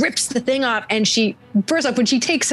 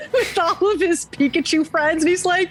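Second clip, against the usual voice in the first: much higher, half-crying through laughter; squeaky tearful farewell, pitched way up; laughing mock sob; 11 semitones higher than usual. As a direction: ham up a heartbroken goodbye. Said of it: "and I'm gonna cry".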